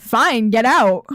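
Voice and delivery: loud, drawn-out dismissal; retold angry dismissal. Worker telling the vendor to leave, acted angry dismissal. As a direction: act out throwing someone out, slowly and forcefully.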